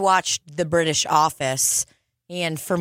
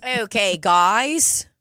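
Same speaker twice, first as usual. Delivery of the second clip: put-on Australian accent; much slower than usual. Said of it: "learn to do it by listening to him".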